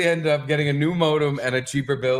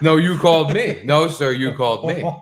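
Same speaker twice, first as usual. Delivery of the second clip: mock indignant; 3 semitones higher, 4 dB louder than usual. Imagined argument escalating.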